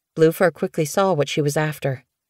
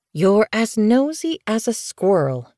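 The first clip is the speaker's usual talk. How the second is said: higher, a fond gentle scold; 6 semitones higher than usual. Acted. Mother Leopardfoot gently scolding her nosy kit. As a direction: tease the kit lightly. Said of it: "she scolded gently".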